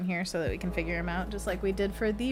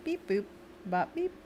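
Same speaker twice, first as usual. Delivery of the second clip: beep boop sound effect; 5 dB quieter than usual. Pretend. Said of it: "Gotta have the sound effects".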